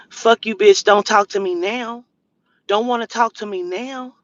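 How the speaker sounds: imitating the harasser's loud, cursing texts with a hint of a snarl; mock angry text read-out. Retelling the stranger's texts to viewers, a loud mock rant. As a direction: read her insults out like she's yelling them at you. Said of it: "Listen to how she's talking to me".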